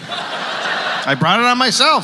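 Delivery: slow, mock-meek self-blame; mock-pathetic son blaming himself. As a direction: play the doormat son owning it.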